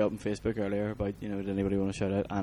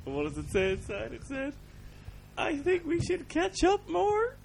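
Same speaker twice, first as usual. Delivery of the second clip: teasing reveal; 4 dB quieter than usual. Acted. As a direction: lift the voice up to tease the pun. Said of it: "card punchline reveal".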